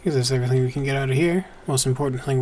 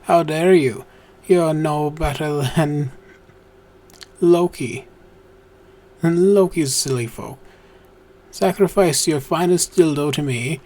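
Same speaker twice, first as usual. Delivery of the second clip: hammed-up wrathful god voice; mock biblical prophet; 2 semitones higher, 3 dB louder, slower than usual. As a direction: boom it like an offended deity. Reading angry god's speech.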